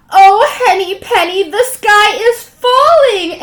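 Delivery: high, loud, slow frightened wail; a little hen's frightened cry; panicked cry. Acted. Chicken Little panics again.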